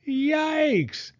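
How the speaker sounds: high shocked yelp; startled yelp. A narrator's reading. Father turning to see the cart of ice cream, high startled yelp. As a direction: jump back in alarm.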